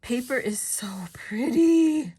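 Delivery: breathy whispered admiration; whispering. Real, not acted. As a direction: hush it like a secret delight.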